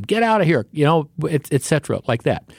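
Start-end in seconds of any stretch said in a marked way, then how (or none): 0.0-0.6 retold yell. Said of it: "they're still yelling at them".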